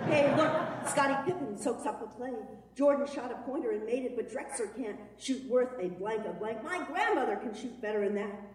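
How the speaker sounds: excited, fast game call; sports play-by-play. Acted. Kid calling the Bulls game to mom, excited and fast. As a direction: call the game like a fan announcer.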